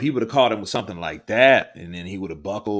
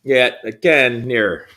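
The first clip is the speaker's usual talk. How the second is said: put-on slow, higher Jamaican accent; 5 semitones higher, 7 dB louder, slower than usual. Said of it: "Can you do a Jamaican accent?".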